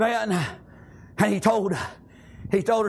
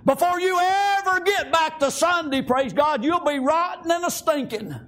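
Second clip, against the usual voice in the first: emphatic preaching; 7 semitones higher than usual. Real, not acted. Preaching climax.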